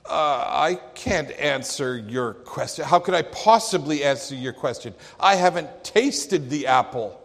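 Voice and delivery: lightly voiced stuffy professor; a hint of a flustered academic; scholarly voice. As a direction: professor conceding to the preacher. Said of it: "in a very scholarly voice".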